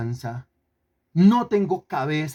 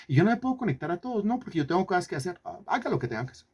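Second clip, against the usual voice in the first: mocking lazy believers; 3 semitones higher, 6 dB quieter, much faster than usual. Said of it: "como fanáticos enfermizos".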